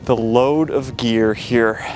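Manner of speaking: winded, catching breath between words. Real, not acted. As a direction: talk while still panting from hauling. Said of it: "sorry, I'm out of breath".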